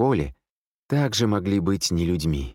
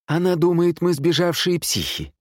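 high, raised-voice retort; incredulous exclamation; 11 semitones higher, 3 dB louder than usual. A narrator's reading. Man explaining the nurse's suspicion, exclaiming high. Exclaimed reply between armed men.

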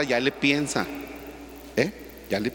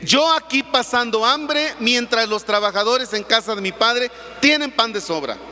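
pleading prodigal son; 4 semitones higher than usual. Retold or imitated.

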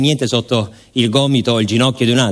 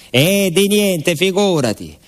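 put-on high, slow old lady's reply; kindly lady; 7 semitones higher, slower than usual. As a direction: wave away the thanks like a kind signora. Lady answers the farewell. (signora gentile, voce alta e lenta)

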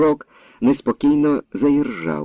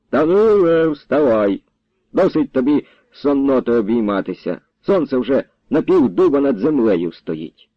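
raised call to wake a sleeper; 3 semitones higher than usual. Acted. Grandfather rousing Danylo from the barn, calling out. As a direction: rouse him from outside, name pitched up.

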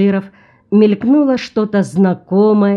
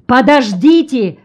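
higher, urgent call to wait; cameraman's shout; 6 semitones higher, 4 dB louder than usual. A narrator's reading. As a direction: call out to stop them. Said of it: "закричал кинооператор".

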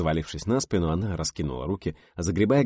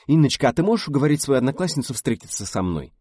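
predatory coo; 9 semitones higher, 6 dB louder than usual. A narrator's reading. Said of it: "хищно заворковал".

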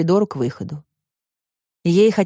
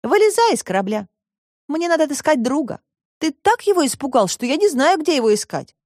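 put-on higher girl's voice, a little worried; girl Alice; 6 semitones higher than usual. A narrator's reading. Alice asks the robot to help find her friend, higher voice.

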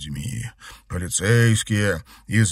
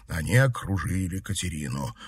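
usual speaking voice

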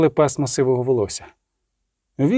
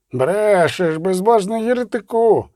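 monk's angry cry; 4 semitones higher, slower than usual. A narrator's reading. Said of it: "крикнув з натовпу чернець".

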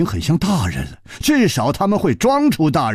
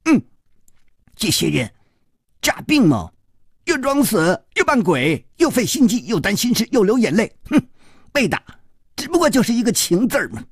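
put-on high-pitched boy grumbling in short bursts; muttering to himself; 10 semitones higher than usual. A narrator's reading. Sulky boy alone grumbling about lovesick adults, high muttering. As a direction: tick off complaints in a high voice. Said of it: "嘴里却喃喃地说".

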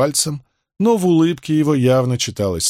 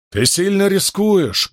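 loud; 8 semitones higher, slower than usual. A narrator's reading. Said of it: "громко сказал Крас".

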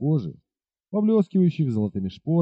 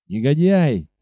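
angry cry; slower than usual. Acted. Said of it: "вскричал капитан".

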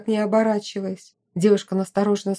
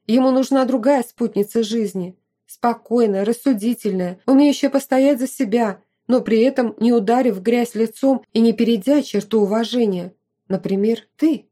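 emphatic list, lifted at the end; lively, slightly louder persuasion; lightly voiced opinionated friend; 4 dB louder than usual. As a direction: make the case with conviction.

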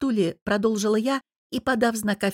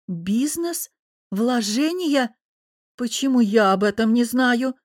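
dry questioning; 4 semitones higher, slower than usual. A narrator's reading. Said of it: "сухо поинтересовалась мама".

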